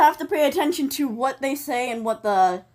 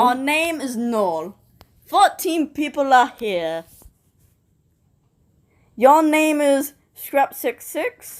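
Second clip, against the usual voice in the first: slow, British announcer voice; British accent; slower than usual. Pretend. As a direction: read it slowly in a British accent. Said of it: "Do it in your British accent".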